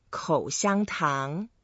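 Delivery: 口香糖 slowly, one syllable at a time; Chinese pronunciation demo. Shown as a demonstration. Teacher showing guest how to say chewing gum, slow pronunciation demo. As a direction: model 口香糖 slowly with each tone distinct. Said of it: "The way to say chewing gum in Chinese".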